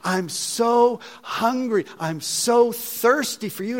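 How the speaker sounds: pleading prayer, stretching the longing words; rising, drawn-out plea; retold crying out. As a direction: reenact an anguished appeal to God. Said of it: "I'm crying out to the Lord".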